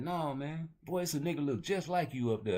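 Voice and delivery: squeaky mock answer, amused; mock high reply. He answers the nosy stranger, high mock voice. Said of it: "You be like".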